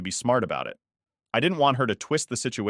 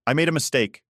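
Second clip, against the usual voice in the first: pleading; 6 semitones higher, 4 dB louder than usual. Acted. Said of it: "she pleaded".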